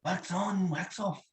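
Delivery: lightly voiced Japanese teacher; Japanese accent. Impressionist showing a stranger Japanese, mock teacher's accent. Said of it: "I can't do Japanese".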